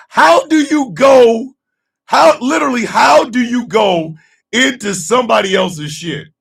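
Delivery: baffled, laughing disbelief; incredulous rant. Real, not acted. Ranting about movie absurdity.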